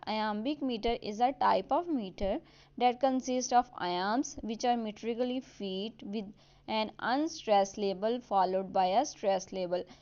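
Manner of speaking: reading the definition out word by word; slow dictated definition. Acted. Teacher to students, dictating the definition slowly. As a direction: spell it out slowly for students to note down.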